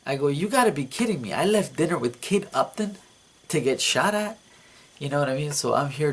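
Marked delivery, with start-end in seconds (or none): 0.3-4.4 higher and fast, incredulous complaint; disbelieving outburst. Retold or imitated. Dreamer diving for cover from gunfire, high incredulous outburst. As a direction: rattle it off in disbelief.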